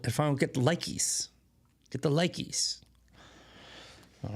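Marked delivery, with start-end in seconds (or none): 0.0-2.8 put-on babyish hushed whisper; whispered pleading. Begging viewers for likes so boss won't fire him, whispered.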